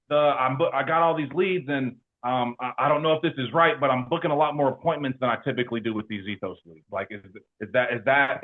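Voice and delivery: tentatively ask, stumbling over the start; puzzled asking. Retold or imitated. Agent checking with her manager about new leads, puzzled asking.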